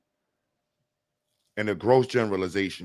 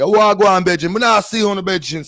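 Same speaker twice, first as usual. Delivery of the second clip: high, loud Jamaican lilt; mock Jamaican accent; 10 semitones higher, 9 dB louder, faster than usual. Imagined Jamaican driver calling out, high sing-song mock accent. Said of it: "It might be a Jamaican".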